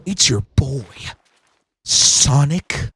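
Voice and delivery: casual streamer trying a Sonic voice; Sonic impression. Streamer doing a weak Sonic the Hedgehog voice. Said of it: "Sonic impression".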